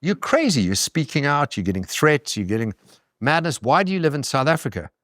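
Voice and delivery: mock-alarmed, as if he's mad to stay; incredulous friends. Telling the host how his foreign friends react, high and incredulous. Friends asking why he stays.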